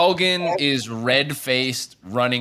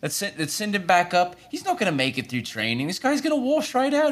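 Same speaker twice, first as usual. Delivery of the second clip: higher, scheming whisper-ish tone; Ren voice; 7 semitones higher, 3 dB quieter than usual. Acted. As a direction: Ren plotting, pitched up. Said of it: "He says".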